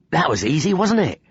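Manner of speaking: put-on boy thrilled at their sneaky success; excited boy. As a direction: crow with excitement. Sari excited after snooping.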